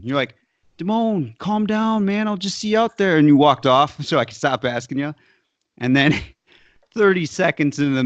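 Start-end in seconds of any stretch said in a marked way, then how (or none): 0.8-3.2 higher pitched mock-casual brush-off; teasing Matt imitation. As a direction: toss it off high and breezy, keeping the secret. Matt again calming him.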